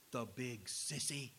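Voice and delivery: put-on low, soft kid's grumble; muttered child's retort. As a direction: mutter it like a sulky little boy. Boy retorts in story, punchline.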